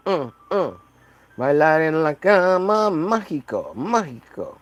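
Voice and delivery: a hint of a sultry Latin lover, sliding into Spanish; lightly voiced smooth Latin lover. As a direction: woo her with lazy charm. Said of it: "I'm like".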